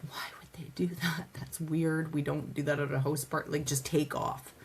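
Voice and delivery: hushed whisper to herself; a secret muttered under her breath; whispered aside. Retold or imitated. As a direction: whisper it like a private thought. Quoting her own inner thoughts.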